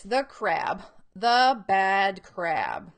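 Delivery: slow, emphatic picture-book reading; reading to children. Acted. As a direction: read it out word by word for young readers. Reads book aloud.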